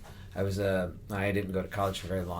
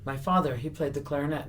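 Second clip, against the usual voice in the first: imitated character, pitched up; Andy Kaufman; 7 semitones higher than usual. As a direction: confide it in a put-on high voice. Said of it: "staying in the Andy Kaufman character".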